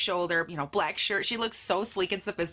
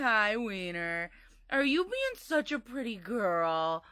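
cooing to dog; slower than usual. Real, not acted.

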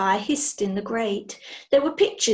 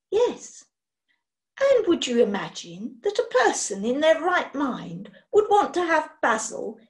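a touch louder, lecturing lady; indignant witch; 2 semitones higher, 4 dB louder than usual. Acted. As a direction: set him straight like a stern mistress.

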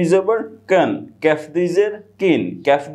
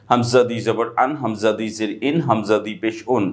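low, quicker run through "হামজা দুই জবর আন"; quicker straight reading; 5 semitones lower than usual. Shown as a demonstration. Teacher showing another way to read hamza, low and brisk. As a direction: read the spelling straight through in a lower pitch. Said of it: "আপনি এভাবে পড়তে পারেন".

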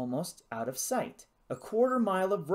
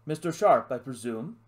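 put-on lightly posh English accent, loud opening; a hint of a plummy British officer; 5 dB louder than usual. Message lizard greets the lost pilot, posh English accent. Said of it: "It spoke with a posh accent".

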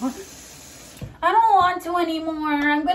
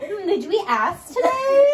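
mocking friend voice; 6 semitones higher, 3 dB louder than usual. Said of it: "She's gonna be like".

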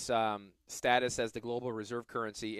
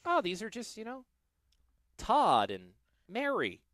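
put-on child voice; 9 semitones higher than usual. Retelling child's naive view.

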